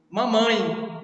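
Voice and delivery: "Mamãe" ending in an i glide; final E as I. Shown as a demonstration. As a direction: say "Mamãe" with its last e sounded as i. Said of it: "mesmo jeito".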